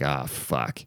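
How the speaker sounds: low, hushed resigned curse; quiet, low aside of dread; muttered dread. Retold or imitated. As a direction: mutter it to yourself, sinking. Retells his dread on seeing dogs.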